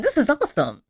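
loving it. Retold or imitated. Daphne still enjoying the zombie chase, imitated delight. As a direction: act delighted in a high voice. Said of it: "she's still loving it".

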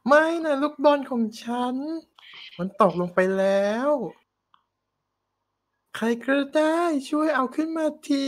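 mock distress of a fairy-tale princess; princess lament. Princess begs anyone to fetch her ball, hammed-up lament.

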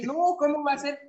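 mock wail. Protesting the eaten sausage.

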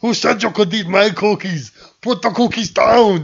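hammed-up movie-villain shout; mock angry neighbor. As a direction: play the outraged cookie owner. Quoting Phil Hartman's character.

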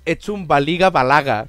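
loud, slow Catalan dub line; mock Vegeta dub voice; quoting Vegeta. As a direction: boom out the cartoon insult. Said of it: "eso se lo decía el Becheta al Goku".

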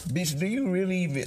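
high, fast, exasperated; exasperated disbelief. Retold or imitated. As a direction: snap it out in disbelief. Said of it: "it's like".

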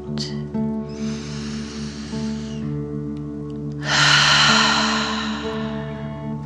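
slow breathy exhale; long dragon breath out. Shown as a demonstration. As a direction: breathe out like fire. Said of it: "pretending you are breathing fire".

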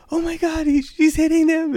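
very high falsetto mock alarm; imitated panicked cashier. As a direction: report the fight as a panicky cashier. Cashier reports fight, acted.

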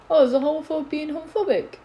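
hammed-up snooty comeback; mock snotty girl. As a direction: sneer it back like a snotty classmate. Mocking the girl's snotty reply.

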